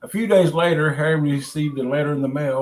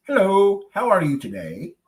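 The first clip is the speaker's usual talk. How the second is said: nice greeting; 7 semitones higher, 6 dB louder than usual. Acted. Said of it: "greeted him with a nice".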